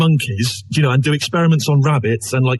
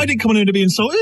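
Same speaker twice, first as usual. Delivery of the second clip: mock indignant old woman; 4 semitones higher, faster than usual. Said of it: "What kind of woman's this?".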